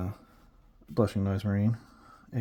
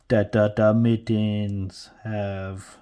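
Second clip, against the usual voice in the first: put-on orc voice; 6 dB louder, much slower than usual. Slips into game character voice.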